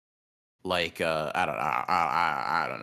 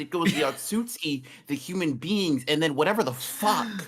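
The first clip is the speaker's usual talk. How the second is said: excited rant; 5 semitones higher than usual. Real, not acted. Heated absurd rant, high voice.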